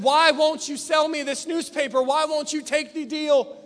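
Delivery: acted exasperation, pressing for an answer; getting angry. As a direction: challenge him with a touch of anger. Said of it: "that man started getting angry".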